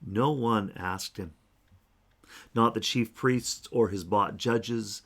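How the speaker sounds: slow, deliberate preaching; slow emphatic. Real, not acted. Preacher insisting no one asked him, slowly. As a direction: lean on each word.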